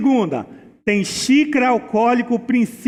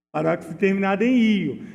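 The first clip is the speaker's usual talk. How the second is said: quick plain repeat; faster than usual. Shown as a demonstration. Teacher quickly repeating the rule to students, fast and light. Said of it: "Não esqueça".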